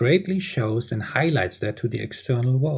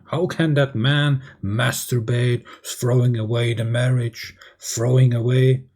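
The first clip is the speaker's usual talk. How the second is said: angry complaint. Acted. Wife complains about her husband wasting the marriage, mock angry. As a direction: stretch out the accusation, mock-angry. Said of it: "complaining and bursting out in anger".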